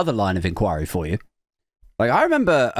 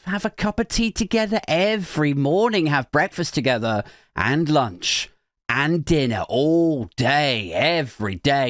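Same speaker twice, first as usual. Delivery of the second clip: mock teasing; 4 semitones higher than usual. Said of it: "joking to her".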